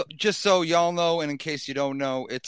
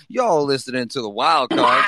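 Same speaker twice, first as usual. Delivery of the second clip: hype shout; 5 dB louder than usual. Real, not acted. Hyping the show's opening.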